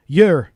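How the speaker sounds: "Yer" said loudly as one drawn syllable; Welsh "yer". Shown as a demonstration. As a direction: give "Yer" as a single emphatic Welsh syllable. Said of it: "say this word for us".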